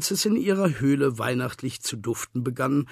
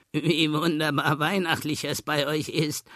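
marvelling; 3 semitones higher than usual. A narrator's reading. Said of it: "staunten sie".

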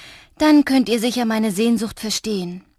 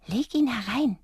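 tiny creature voice; 4 semitones higher than usual. A narrator's reading.

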